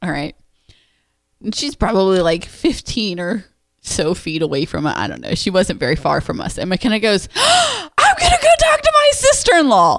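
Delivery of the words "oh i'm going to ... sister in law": put-on shout, pitched much higher. Retelling what McKenna said by the football field, imitating McKenna's yell. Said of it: "Like at the top of her lungs".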